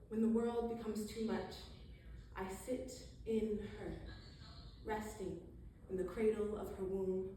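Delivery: measured spoken-word delivery with lingering pauses; poetry reading. Acted. Poet sharing a moon poem with the audience, measured recital. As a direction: recite it in phrases, letting each image settle. Reads own poem aloud.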